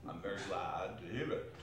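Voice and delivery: mock relief, coldly; dry sarcasm. Scrooge sneering at the charity gentlemen.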